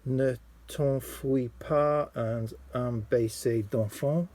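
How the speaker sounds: slow, careful amateur French accent; attempted French accent. Shown as a demonstration. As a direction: spell out the French titles in a self-conscious French accent. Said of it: "apologies for my terrible French accent".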